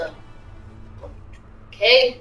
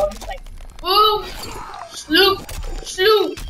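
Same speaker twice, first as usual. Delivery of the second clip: angry sound effects; 5 semitones higher than usual. Shown as a demonstration. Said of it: "this is what happens when I get angry".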